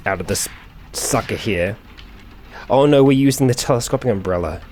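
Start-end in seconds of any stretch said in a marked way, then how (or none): 2.7-4.6 amused alarm. Real, not acted. Laughing at a silly weapon.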